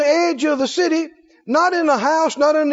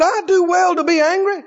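mild defiant Jonah; 4 semitones higher than usual. Acted. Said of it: "He said".

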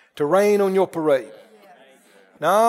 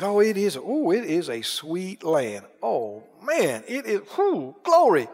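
awed admiration; 3 semitones lower, 5 dB quieter than usual. Retold or imitated. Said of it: "They said".

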